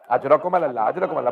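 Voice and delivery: low, broken condolence through tears; grief-stricken, voice caving in; low sobbing call of condolence; choked refrain. Real, not acted. Weeping condolence refrain after masaib.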